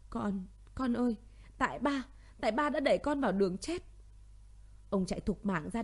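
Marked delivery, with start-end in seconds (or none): 0.1-3.8 mild crying. Acted. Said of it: "bật khóc".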